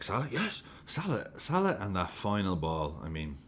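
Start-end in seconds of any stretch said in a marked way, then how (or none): 0.0-1.8 excited calling. Retold or imitated. Mimicking excited commentary.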